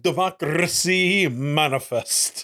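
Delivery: slow, lightly mimicked orator; playful imitation of a grand pronouncement; Charles Doja impression. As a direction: draw it out like a mock proclamation. Mimicking the man in played clip.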